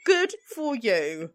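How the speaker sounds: a sudden high, loud mocking "good for you"; loud sarcasm mocking his gloating; loud sarcastic jab. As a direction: snap it back loud and high. Sarcastic retort.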